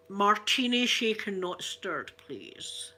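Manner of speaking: Sean Connery impression. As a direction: order the martini like Sean Connery in a mild Scottish accent. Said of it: "a Sean Connery impersonation".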